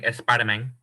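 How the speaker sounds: imitated mother-in-law accent, "Spider-Man" ending like "meng"; mother-in-law's accent. Son-in-law mimics mother-in-law naming a superhero, accented. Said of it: "you got my mother-in-law saying".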